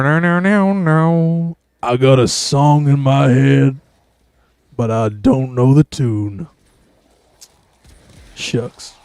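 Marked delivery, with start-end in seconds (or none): 1.8-6.5 slow, deliberate character read; acted line. Shown as a demonstration. Rehearsing a quoted line, slow deliberate take. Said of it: "I've yet to do a good take". 8.3-8.9 soft, breathy "Shucks" under the breath; whispered shucks. Shown as a demonstration. A whispered shucks closing his rehearsed line. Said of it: "I think that was bad".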